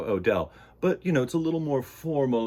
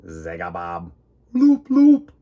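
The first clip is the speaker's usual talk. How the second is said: alien voice; 5 semitones lower, 9 dB louder than usual. Acted. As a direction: make it sound otherworldly.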